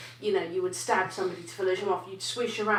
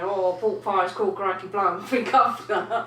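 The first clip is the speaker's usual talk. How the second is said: mock British accent; 5 dB louder, slower than usual. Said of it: "take the piss and start going".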